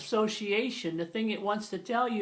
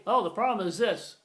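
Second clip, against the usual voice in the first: stilted spoken colon; 4 dB louder than usual. Shown as a demonstration. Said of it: "you don't say".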